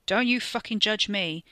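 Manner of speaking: put-on snapping in his natural accent. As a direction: snap it defensively. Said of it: "he snapped".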